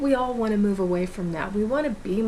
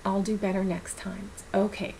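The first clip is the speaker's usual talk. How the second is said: 1 gentle reassurance; 5 dB quieter than usual. Shown as a demonstration. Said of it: "just take a moment and go".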